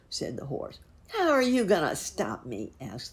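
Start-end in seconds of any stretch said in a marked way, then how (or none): 1.1-2.7 loud, high-starting taunt; high, loud villain's challenge; wolf's challenge. A narrator's reading. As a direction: throw it out as a scornful dare. Wolf challenges the horse.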